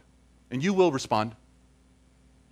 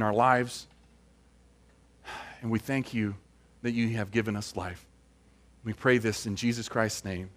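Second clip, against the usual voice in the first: closing prayer; 2 semitones lower than usual. Real, not acted. Pastor prays for the congregation after the sermon, earnest prayer voice.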